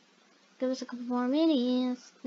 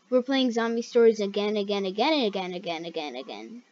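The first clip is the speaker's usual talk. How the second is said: again and again, sliding steadily down; sinking weary repetition; 4 semitones lower than usual. Real, not acted. Player stressing endless replays to viewers, sinking repetition.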